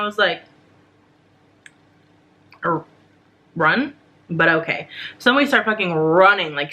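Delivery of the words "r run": halting, puzzled echo with a rising end; mock bewildered reply; hesitant questioning. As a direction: stammer the start, then question it. Baffled reply to being told run.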